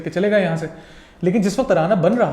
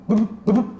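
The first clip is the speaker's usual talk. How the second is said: "बिब, बिब" as short, snappy rhythm beats, a bit higher; rhythm demo; 4 semitones higher, slower than usual. Shown as a demonstration. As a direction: tap out "बिब, बिब" like a Scotch snap beat. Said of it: "मैं भी करके शायद वो दिखाता हूँ". ("बिब, बिब" को लय दिखाते हुए छोटे झटकेदार बोल)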